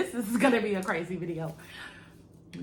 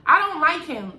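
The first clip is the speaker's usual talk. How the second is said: disgusted denial; 6 dB louder, much slower than usual. Retold or imitated. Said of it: "I would be like".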